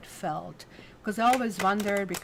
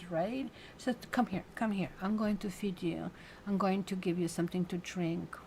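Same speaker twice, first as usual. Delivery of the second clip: tender comfort. Acted. Woman comforting the Fool.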